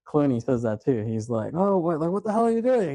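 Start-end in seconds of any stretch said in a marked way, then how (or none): 1.5-2.9 high-pitched mock outrage; retold disbelief. Clooney's character challenging his brother after the shooting, mock disbelief. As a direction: imitate an incredulous challenge, voice jumping up.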